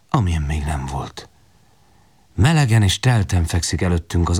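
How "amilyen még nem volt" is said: whisper. A narrator's reading. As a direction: let it fall to a whisper. Hushed awe. (ámult suttogás)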